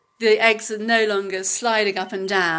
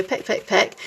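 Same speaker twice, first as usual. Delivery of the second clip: mother hen impression. Shown as a demonstration. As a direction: lightly call peck like a hen to her chicks. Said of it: "do your mother hen impression".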